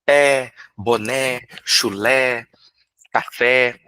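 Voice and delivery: each rhyming word spaced out slowly, "Pé", "boné", "chulé", "café"; teacher modelling rhymes for children, slow and spaced; slow rhyme demo. Shown as a demonstration. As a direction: lay the rhymes out one by one, slowly. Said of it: "vamos fazer uma rima aqui".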